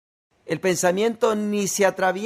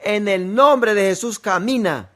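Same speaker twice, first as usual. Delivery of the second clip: higher and louder command to walk; authoritative healing command; commanding shout; 3 semitones higher, 3 dB louder than usual. Retold or imitated. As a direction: command the dead woman to rise. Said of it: "comenzó a gritar".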